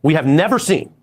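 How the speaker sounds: TV news audio from another room; tv through the wall. Real, not acted. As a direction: broadcast bleeding in behind the mic. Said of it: "You guys are saying the T V is loud".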